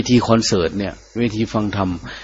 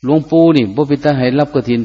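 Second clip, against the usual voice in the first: higher, Isan-dialect objection; a monk objects at the kathina meeting, higher, in Isan dialect; objecting monk; 5 semitones higher than usual. Retold or imitated. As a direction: protest like a village monk. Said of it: "ทักท้วงองค์หนึ่งว่า".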